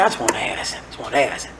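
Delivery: low, soft murmur; quiet, low, repeated complaint; muted pleading. Acted. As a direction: plead under your breath. Acting Job's muted complaint to God.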